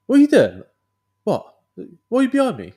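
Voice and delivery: high, loud incredulous shout; a bewildered high-pitched holler; mock baffled shout. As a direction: yell it up high in disbelief. Patrol leader confused, retold.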